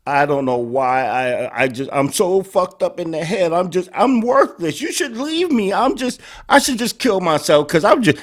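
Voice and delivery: feigned self-pity, building and rising in pitch; mock self-blame. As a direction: spiral into hammed-up self-loathing. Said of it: "putting all the blame on herself".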